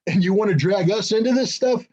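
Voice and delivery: hammed-up exasperated Europe; exasperated NATO. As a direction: whine it like a put-upon partner asking for help. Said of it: "nato's basically sitting there going".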